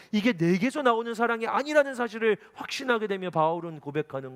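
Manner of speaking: high, loud preaching at full force; impassioned preaching. Acted. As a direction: preach with swelling fervor.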